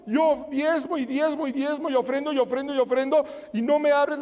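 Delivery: imitated whining grievance; mock tearful complaint. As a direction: plead like an aggrieved worshipper putting on tears. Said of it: "gente que está llorando y dice".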